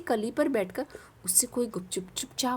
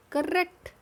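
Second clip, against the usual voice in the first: cheerful praise; 3 semitones higher, 4 dB louder, slower than usual. Real, not acted. Praising the answer.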